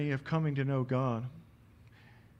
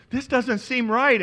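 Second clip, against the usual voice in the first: slow, laughing disbelief; amused, slow disbelief at the wrong gate; 11 semitones higher, 11 dB louder than usual. Retold or imitated. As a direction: chuckle it out, slow and high.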